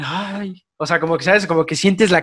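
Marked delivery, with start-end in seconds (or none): 0.0-0.6 soft, higher-pitched "ay"; mock pang of feeling; heartfelt "ay". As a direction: sigh out an "ay" as if the song hit home. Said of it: "sentí como el".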